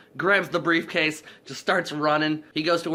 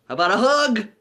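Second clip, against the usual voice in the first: loud, high goofy holler; imitated overeager plea; 8 semitones higher, 7 dB louder than usual. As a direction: blurt it out like a clingy goofball. Overeager goodbye at airport.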